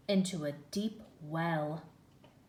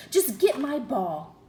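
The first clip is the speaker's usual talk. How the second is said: loud, higher demand; impatient order; 5 semitones higher, 10 dB louder than usual. A narrator's reading. Princess ordering the frog, loud and impatient. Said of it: "the princess snapped".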